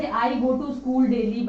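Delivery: each word spelled out slowly; slow example sentence. Shown as a demonstration. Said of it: "जैसे". (धीरे-धीरे उदाहरण वाक्य)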